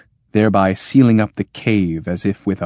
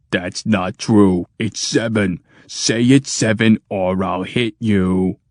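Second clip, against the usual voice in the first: threatening machine; slower than usual. Acted.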